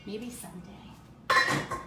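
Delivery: wistful whisper. Real, not acted. Wishing for a bigger kitchen.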